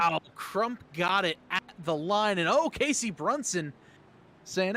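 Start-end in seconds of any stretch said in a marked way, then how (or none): 0.0-3.7 lifted, amazed play-by-play; mildly raised, eager commentary; excited finish call. Real, not acted. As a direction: call a surprise at the line. Calling the close finish.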